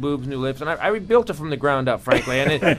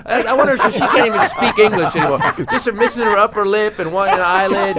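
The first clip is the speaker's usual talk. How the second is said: lisping silly voice; 2 semitones higher, 6 dB louder than usual. Pretend. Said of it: "did you ever use that voice".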